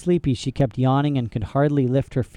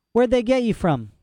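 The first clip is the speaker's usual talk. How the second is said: put-on London girl; 9 semitones higher than usual. A narrator's reading. Girl voiced.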